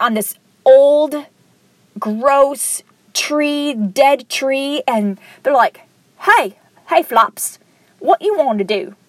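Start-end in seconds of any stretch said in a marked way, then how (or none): 6.2-9.0 lightly put-on Liverpool accent; cartoon vulture with a hint of Liverpool accent. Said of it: "like, a Liverpool accent".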